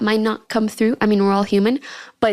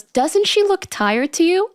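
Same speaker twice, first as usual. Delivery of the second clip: pitched-up mock of a clueless dude asking her friends; mocking the guy; 8 semitones higher than usual. Mocking the clueless classmate, pitched up and incredulous. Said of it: "he turns to my friends and he goes".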